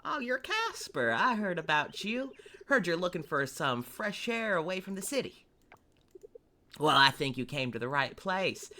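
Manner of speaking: lightly put-on Southern country boy accent; silly southern accent. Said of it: "a little silly southern accent when I voice him".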